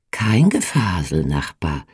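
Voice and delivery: Nachbar dropping low and hushed; mildly mysterious, confiding; a hint of secrecy. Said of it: "erwiderte sie geheimnisvoll".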